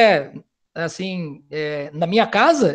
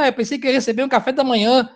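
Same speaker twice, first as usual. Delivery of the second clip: mock complaint; 3 semitones higher, faster than usual. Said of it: "deu uma reclamadinha".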